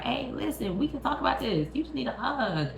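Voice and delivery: He-Man pleading softly with Skeletor; soft mock He-Man. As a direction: coax him like a counselor. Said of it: "He-Man trying to talk to him like".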